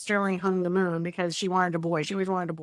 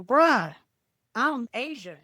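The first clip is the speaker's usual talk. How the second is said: put-on heavy Southern accent; 3 semitones higher, slower than usual. Son telling people he's Thai, imitated Southern accent. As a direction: mimic a Southern bro announcing himself. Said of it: "he has his heavy accent".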